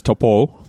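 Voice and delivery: Taupo said the Maori way, vowels kept pure; Maori pronunciation. Shown as a demonstration. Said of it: "the Maori".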